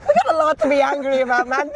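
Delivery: giggly mock grievance; half-laughing complaint. Real, not acted. Joking about Irish anger.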